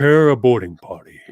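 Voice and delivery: flat, even villain voice; monotone Vader. Retold or imitated. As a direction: deliver it dead monotone. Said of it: "He's very, like, monotone".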